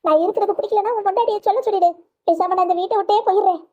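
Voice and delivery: mother wails to son she will leave the house; wailing threat. Acted. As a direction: cry out that she'll leave.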